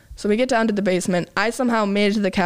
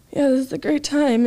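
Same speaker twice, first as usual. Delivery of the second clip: sarcastic; 6 semitones higher than usual. Retold or imitated. Sarcastic remark while hungover.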